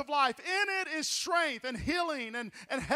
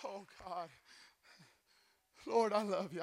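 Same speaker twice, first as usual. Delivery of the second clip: quiet prayer; 6 semitones lower, 10 dB quieter than usual. Real, not acted. Quiet prayer after climax.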